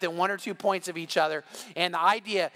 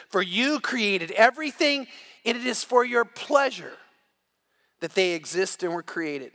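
scripture reading. Acted. Pastor reads Revelation to the congregation, measured and solemn. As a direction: read it as a solemn proclamation.

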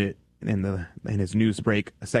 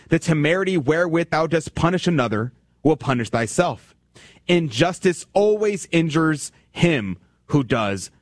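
solemn reading; 5 semitones higher than usual. Acted. Reading a quotation aloud.

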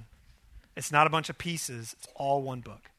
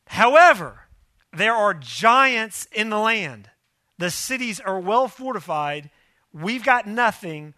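louder, higher and slow, a big ominous turn; dramatic warning; 4 semitones higher, 8 dB louder than usual. Acted. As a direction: boom out the threat slowly. Dramatic turn in the spies' report.

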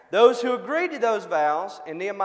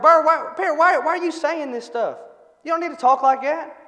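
higher, louder exasperated scolding; mad at the bird; 7 semitones higher, 8 dB louder than usual. Acted. Owner scolding his swearing parrot, acted-out anger. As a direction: play an owner telling off his pet. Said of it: "he's getting mad at the bird".

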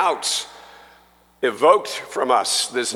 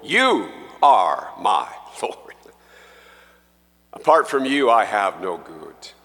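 whispered to himself; 4 semitones lower than usual. Acted. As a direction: breathe it as a private vow. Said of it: "I have to say to myself".

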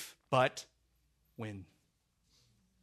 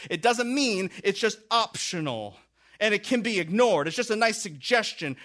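higher and louder, voicing God's warning; thundering warning; 9 semitones higher, 8 dB louder than usual. God warning Israel through the preacher, thundering proclamation. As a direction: proclaim it like a divine decree.

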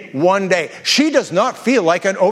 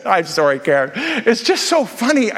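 laughing apology. Retold or imitated. Laughing while apologizing to her.

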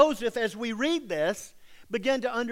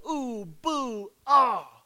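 mock boos of the crowd, the ah louder; crowd jeering; 4 semitones higher, 4 dB louder, much slower than usual. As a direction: hoot at her like a town crowd. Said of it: "everybody would go".

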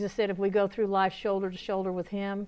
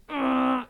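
drawn-out vocal motor noise; imitated engine rev; 4 semitones higher, 4 dB louder than usual. Shown as a demonstration. Preacher letting God ride wide open, imitated engine roar. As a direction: make a revving engine sound.

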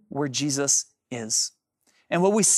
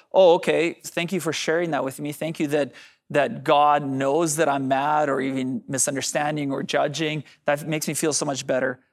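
unimpressed; 4 semitones lower than usual. Acted. Voices an unconvinced listener's reply.

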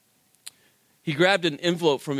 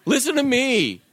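pleading with God; 4 semitones higher, slower than usual. Retold or imitated.

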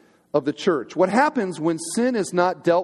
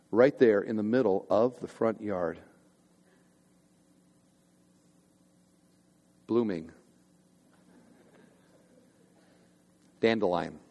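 ominous hush; 8 semitones lower, 6 dB quieter than usual. Real, not acted. Preacher building suspense about the dandelion, hushed. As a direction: let it sink in with long pauses. Dramatic reveal of the weed.

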